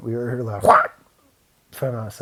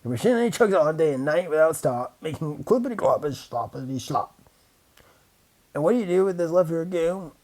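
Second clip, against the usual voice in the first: snapping Lorax; 5 semitones higher than usual. A narrator's reading. Lorax angrily scolding the Onceler about the goo. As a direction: snap back with your dander up. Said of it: "snapped the Larks, his dander was up".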